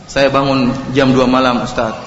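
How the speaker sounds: low, soft anxious confession; regretful husband confessing to the preacher; worried questioner. Retold or imitated. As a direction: read the message low and hushed like a nervous husband. Sampai ada yang S M S.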